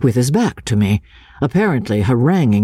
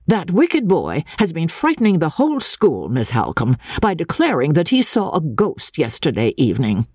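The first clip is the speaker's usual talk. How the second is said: strict teacher; 5 semitones higher than usual. Acted. Master complains of boy.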